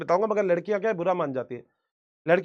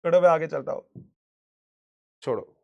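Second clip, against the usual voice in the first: laughing; 5 semitones lower than usual. Real, not acted. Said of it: "हंसी आ रही है".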